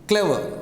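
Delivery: "clever" stressed at the start, then falling; stress on first syllable. Shown as a demonstration. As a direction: lean on the opening syllable of "clever". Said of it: "Stress on first syllable".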